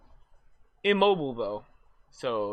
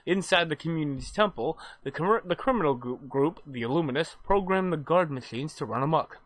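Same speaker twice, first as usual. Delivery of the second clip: story recap narration. Acted. Reads the game's story recap.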